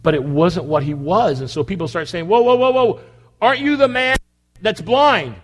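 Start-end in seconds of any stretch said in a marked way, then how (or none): 2.3-5.4 surprised. Acted. Neighbors question healed man.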